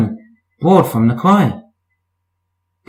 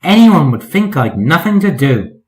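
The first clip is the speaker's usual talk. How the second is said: grumbling. Acted. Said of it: "grumbled Percy".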